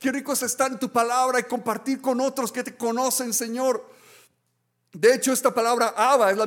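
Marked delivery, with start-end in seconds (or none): 0.0-3.8 delighted prayer. Pretend. Believer resting in God's presence, blissful and sing-song. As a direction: savour every word, almost singing.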